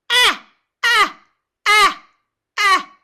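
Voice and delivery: very loud, high, pressed ah calls. Shown as a demonstration. Teacher demonstrating how pressing feels. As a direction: press the folds hard on ah. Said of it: "know what vocal fold pressing feels like".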